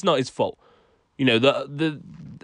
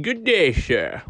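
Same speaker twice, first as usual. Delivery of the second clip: mock posh English; slower than usual. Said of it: "or saying".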